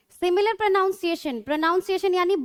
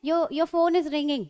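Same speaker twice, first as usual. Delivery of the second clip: slow, carefully spaced English sentence; teacher reading an example sentence slowly; much slower than usual. Shown as a demonstration. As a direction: read each word out slowly for the class. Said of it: "उसको भी ring कहते हैं".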